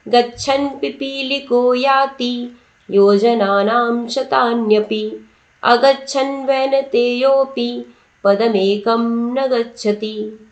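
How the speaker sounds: slow, stretched Sanskrit verse chant; measured classroom recitation of a Sanskrit verse; shloka recitation. Shown as a demonstration. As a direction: recite each phrase slowly, as if for students to repeat.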